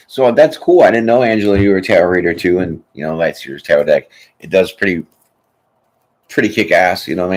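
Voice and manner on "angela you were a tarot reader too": ordinary delivery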